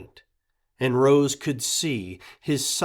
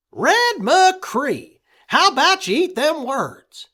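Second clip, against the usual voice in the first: much higher, loud protest; indignant boy; 10 dB louder than usual. A narrator's reading. Boy defending his puppy from Red, high and indignant. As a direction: call him out by full name.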